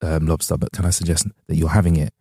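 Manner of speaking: posh waiter. Retold or imitated. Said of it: "but like".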